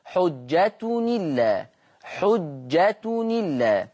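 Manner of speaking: very slow حجة إلا joined as حجتنِلا; slow teaching recitation of حجة إلا; transfer demo. Shown as a demonstration. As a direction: let the hamza vowel slide onto the nunation, drawn out. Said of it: "يقرأ بالنقل".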